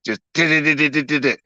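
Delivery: fast "da-da-da-da-da-da-da" tapped by the tongue against clenched teeth; tongue rattling on teeth. Shown as a demonstration. Showing chat how his tongue beats against his teeth, fast da-da-das. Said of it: "It's just beating against the bottom of my damn teeth".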